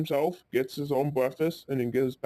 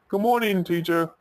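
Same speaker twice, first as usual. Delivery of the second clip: higher-pitched schoolkid greeting; cheery greeting; 5 semitones higher than usual. Acted. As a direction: act out greeting the teacher brightly. Ben greets teacher entering class.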